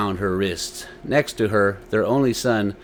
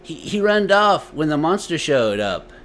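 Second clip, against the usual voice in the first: put-on higher boy voice, stammering in fear; frightened boy; 6 semitones higher, 4 dB louder than usual. A narrator's reading. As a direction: stutter it out like a scared child.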